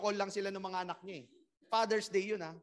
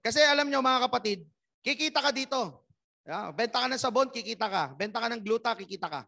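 loud, pumped-up crowd rally; loud rally cry; 2 semitones higher, 9 dB louder than usual. Real, not acted. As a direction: fire up the room like a rally.

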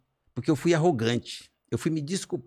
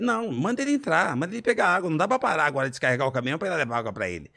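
arrogant; faster than usual. Retold or imitated. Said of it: "Eu fui extremamente arrogante".

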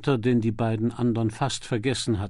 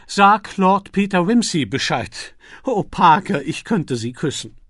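put-on old lady's cry; 6 semitones higher, 7 dB louder than usual. A narrator's reading. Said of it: "Thipps letzter Schrei war".

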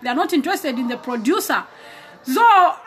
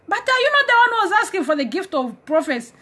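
indignant challenge; 5 semitones higher than usual. Acted. God rebukes the reluctant asker.

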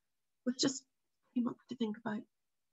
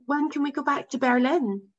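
put-on higher, pleading young boy; 5 semitones higher, 4 dB louder than usual. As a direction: ask it like a hopeful boy.

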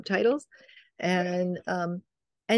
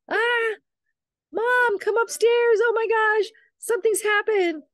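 high-pitched mock screaming; imitated scream; 3 dB louder than usual. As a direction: act out a panicked scream for mom, far above your usual pitch. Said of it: "she's screaming. She's like".

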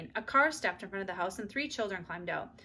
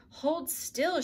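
firm command, pitched up high; 8 semitones higher than usual. A narrator's reading. Girl to the muddy boot's owner, firm. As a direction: order it firmly in a higher voice. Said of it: "she said firmly".

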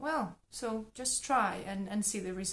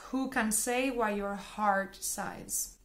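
slow rhythm start; slower than usual. Shown as a demonstration. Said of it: "Let's try with the second sentence".

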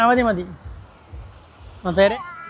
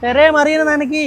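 put-on slow and higher, each word laid out for the toddler; slow, high coaching voice modelling the phrase; slow prompt for a child; 6 semitones higher, 4 dB louder, slower than usual. Shown as a demonstration. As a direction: say it slowly so the child can copy it. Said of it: "പറയ്, തെരേ നനയ്ക്കീന്ന് പറ".

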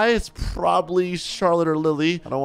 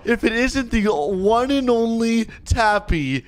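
gloating villain; 6 semitones higher, slower than usual. Acted. Villain girl voiced gloating.

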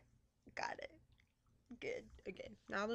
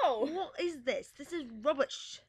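put-on British accent.

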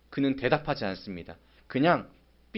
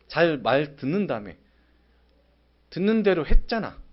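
exasperated scolding; 2 semitones higher, 4 dB louder than usual. Retold or imitated. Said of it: "저는 이 말을 할 것 같습니다".

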